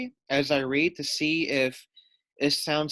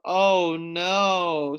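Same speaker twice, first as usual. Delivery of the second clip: screeching; 3 semitones higher, 4 dB louder than usual. Acted. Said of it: "screeched Puffin Muffin".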